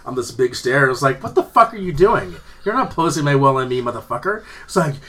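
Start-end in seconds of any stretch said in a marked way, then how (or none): 1.2-4.4 indignant, raised-voice confrontation that eases off; mock-angry telling-off; retold pissed-off challenge. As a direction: act out squaring up to an accuser. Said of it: "so I was pissed off".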